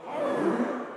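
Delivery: loud pirate growl; loud pirate arr. Acted. Pirate growl, improv show.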